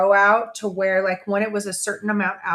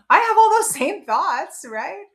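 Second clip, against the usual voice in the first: whisper; 9 semitones higher, 4 dB louder than usual. Real, not acted. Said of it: "whispered confession".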